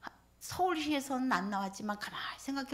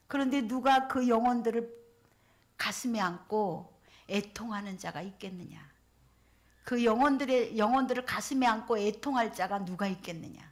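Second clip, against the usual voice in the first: lament; 3 dB louder than usual. Retold or imitated. Spirit's lament, preached with force.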